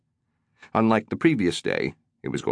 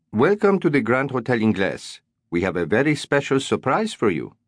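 careful English; 4 semitones higher than usual. A narrator's reading. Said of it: "He spoke in careful English".

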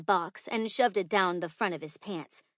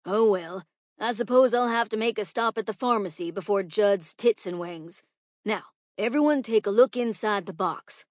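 louder, lightly voiced schoolteacher; resigned teacher; 2 semitones higher, 6 dB louder than usual. Teacher resumes the lesson after spilled pills, mildly resigned. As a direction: move on from grumbling to instructing.

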